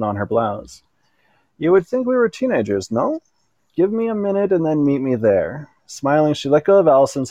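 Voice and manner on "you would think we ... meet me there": Camille voice. A narrator's reading. Camille voiced, French-accented character.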